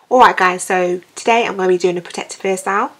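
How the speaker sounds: put-on loud, lightly done Essex accent; mock Essex accent. Introducing her hairstyle video in a mock Essex accent. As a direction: play an Essex vlogger, half-jokingly. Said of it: "Imagine if I did have an Essex accent".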